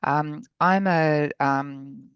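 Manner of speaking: hoarse after covid, real croak; croaky voice. Real, not acted. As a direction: speak through a croaky throat. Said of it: "for my croaky voice".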